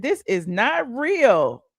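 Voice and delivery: lightly voiced doubting fan; a hint of a skeptical commenter; mock fan disbelief. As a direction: commenter insisting it's real. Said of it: "They said".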